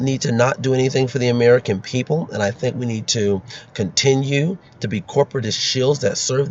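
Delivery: lightly voiced earnest politician; Amy Klobuchar. Candidate answering at a debate about farms and corporations, lightly mocking impression. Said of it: "she'll be sitting there like".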